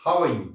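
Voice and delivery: one loose, blended "How are you"; loose, linked. Shown as a demonstration. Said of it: "loose छोड़ सकते हो छोड़ के बोलिए".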